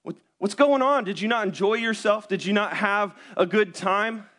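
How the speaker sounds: puzzled, caring questions; mock-concerned wife voice; girlfriend's worried question. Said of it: "she looks at me and she says".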